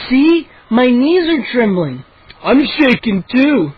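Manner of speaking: mock fear. A narrator's reading. Mocking fake fear.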